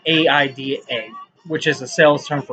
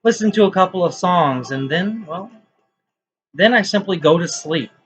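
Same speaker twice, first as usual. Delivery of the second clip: measured, declaimed poetry reading with pauses between lines; spoken-word recital, lifting at line starts and settling at the ends; poem reading; 2 semitones higher than usual. Acted. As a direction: recite it as your own poem, leaning on key words. Reads own poem aloud.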